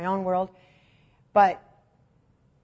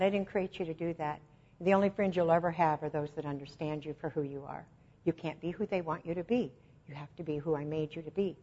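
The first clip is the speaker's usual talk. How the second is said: quiet reassurance; 3 semitones lower, 6 dB quieter than usual. Retold or imitated. God's reassuring words retold.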